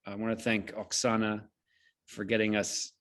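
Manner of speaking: ordinary delivery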